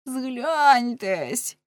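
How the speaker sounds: high, desperate plea; crying for mercy. A narrator's reading. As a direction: cry out imploringly. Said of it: "кричав він".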